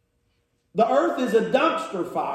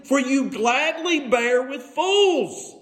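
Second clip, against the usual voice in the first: slow, higher-pitched mock praise; sarcastic scripture reading, stretched out; 4 semitones higher, slower than usual. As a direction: needle them with drawn-out sarcasm. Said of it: "Can you hear the sarcasm?".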